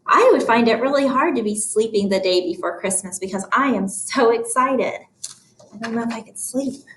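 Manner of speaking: quick, chatty aside from the book; thinking voice. Shown as a demonstration. Teacher relates the story to herself, thinking voice. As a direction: think aloud about your own feelings. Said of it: "My thinking voice".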